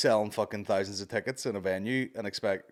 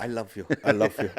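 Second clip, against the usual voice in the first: sudden tender turn; 3 dB louder than usual. Retold or imitated. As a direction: drop from yelling to gentle affection. Comedian's switch straight after yelling.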